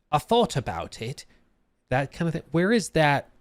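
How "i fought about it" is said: "thought" said with an f for the th. Shown as a demonstration. Streamer asks chat about the accent, th turned to f in "thought". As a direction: say "thought" like "fought". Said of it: "T Hs or Fs".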